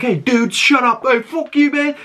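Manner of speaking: high, indignant imitation with a laugh; mock angry retort. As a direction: squawk back in high-pitched mock outrage. Acting out a film character's retort.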